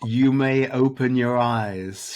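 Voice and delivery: lightly voiced queen, letting the voice carry over a swamp; queen's carrying call. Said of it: "her voice carries over the stillness".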